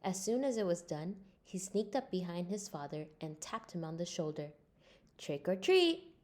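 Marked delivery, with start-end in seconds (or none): 5.2-6.1 high, bright call to startle; playful trick-or-treat call. Acted. Franklin sneaking up on his father, high playful call.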